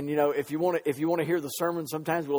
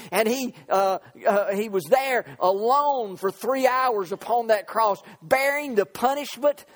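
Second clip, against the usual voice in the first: raised, driving pulpit delivery; full-force preaching; 4 semitones higher than usual. Real, not acted. Preacher to congregation on the centurion, full-force preaching. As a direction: preach it out with punched words.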